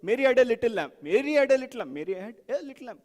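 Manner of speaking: "Mary had a little lamb" run through with stress moved each time; shifting stress. Shown as a demonstration. Teacher putting all the emphases together, stress shifting each time. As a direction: repeat it, leaning on a different word of "Mary had a little lamb". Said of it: "if you put all of those".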